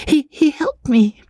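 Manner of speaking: high, breathy whisper. A narrator's reading. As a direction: whisper it to a friend. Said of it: "She whispered the rest".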